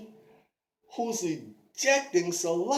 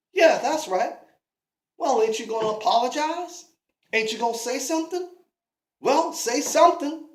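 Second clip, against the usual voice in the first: louder, fast, pushy confrontation; Davy demanding the rude stranger apologize, loud and fast; angry demand; 3 semitones higher, 7 dB louder, faster than usual. Acted. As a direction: get in his face for an apology.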